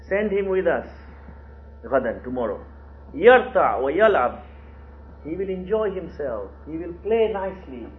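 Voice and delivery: mildly excited persuasion; enticing. Retold or imitated. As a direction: dangle it as a treat. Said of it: "try to get Yusuf excited".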